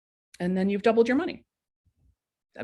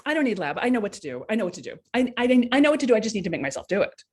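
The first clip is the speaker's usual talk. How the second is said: defensive insisting; 3 semitones higher, faster than usual. Retold or imitated. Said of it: "part of it is this like".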